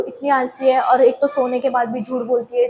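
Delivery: loud retold teacher rebuke. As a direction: imitate the teacher telling her off, loud. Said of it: "teacher बोल रही है मेरे को".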